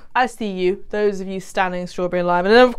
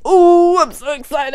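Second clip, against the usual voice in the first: excited squeal; 6 semitones higher, 5 dB louder than usual. Real, not acted. Delighted at finished drink.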